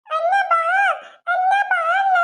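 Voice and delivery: put-on high child voice calling grandma; little girl voice. Little girl telling grandma that auntie hits her. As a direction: tell on auntie like a small child.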